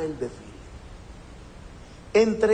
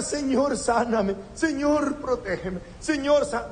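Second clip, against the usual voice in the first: mock whiny plea; 7 semitones higher than usual. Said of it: "Aquí no es de estar".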